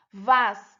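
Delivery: "Vassoura" as three separate beats, vas-sou-ra; syllable by syllable. Shown as a demonstration. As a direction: pause between each syllable of "Vassoura". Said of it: "três sílabas".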